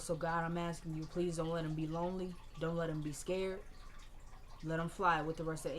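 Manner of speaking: imitating a grandmother's gentle prayer; soft prayer. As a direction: pray quietly for the boy. Grandmother praying over casket.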